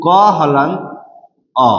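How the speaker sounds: क हलंत, pause, then अ on its own; broken into parts. Shown as a demonstration. Teacher breaking क into consonant and vowel, pausing between parts. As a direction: split क हलंत and अ apart with a clear pause. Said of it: "अब इसको हम तोड़ेंगे".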